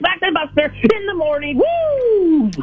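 high, excited party-guy greeting; hyped caller. Acted. A caller greeting the radio hosts, hyped and high. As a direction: burst in like a hyped morning-show caller.

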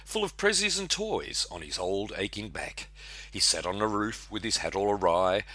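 lilting storytelling verse, lifts and dips; comic Christmas poem recital. Acted. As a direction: recite the rhyme like a yarn.

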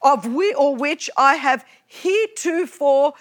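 reciting the oath in a formal, ceremonial tone; mock-solemn recital of the oath. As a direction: read it like a solemn legal pledge. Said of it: "Who speaks like this?".

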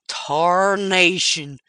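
put-on slow drawn-out old-timer exclamation; old prospector. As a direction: drag the word out like a grizzled miner. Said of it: "he said to the burro".

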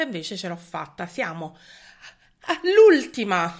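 winded, catching breath between words; short of breath, heavily pregnant. Real, not acted. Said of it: "scusate il fiatone".

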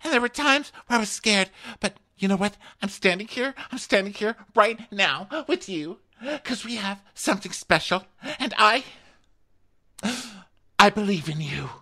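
hammed-up tearful declaration of love; mock heartfelt speech. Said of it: "'Cause she's like".

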